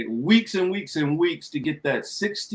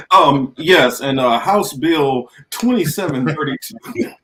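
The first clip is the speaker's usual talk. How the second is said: Bowman; 5 dB louder, slower than usual. Acted. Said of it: "I'm Bowman".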